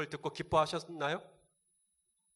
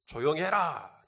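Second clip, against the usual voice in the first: mild rebuke; 4 dB louder, much slower than usual. Retold or imitated. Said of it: "이렇게 꾸짖으십니다".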